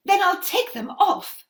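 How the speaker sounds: high, loud and eager; eager offer. Acted. Mother offering the witch to take her shoes off, eagerly. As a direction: rush to agree.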